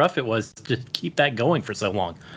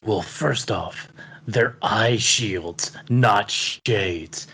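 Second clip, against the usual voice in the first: a man who thinks this is how cyborgs talk; put-on cyborg voice; slower than usual. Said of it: "I have to talk like this".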